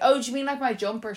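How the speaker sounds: mock baffled tourist; confused question. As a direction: ask in disbelief, pitch up. Confused at being told to strip.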